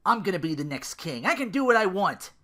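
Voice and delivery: loud, high boastful prince; arrogant declaration. Acted. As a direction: brag like a spoiled royal brat. Arrogant prince declares himself king.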